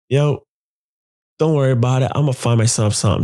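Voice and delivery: lightly upbeat retold phone call. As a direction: brush off the worry cheerfully. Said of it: "you're so upbeat about it".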